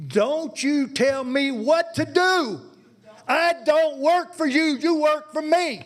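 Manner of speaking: jabbing at the board member, voice rising; angry citizen raising his voice at a board member. Real, not acted. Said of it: "lower the tone of your voice".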